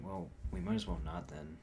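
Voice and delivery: a flat final refusal; firm no, the version he did not actually use; definitive. Shown as a demonstration. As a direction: shut the door on it. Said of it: "I didn't say it as definitive as that".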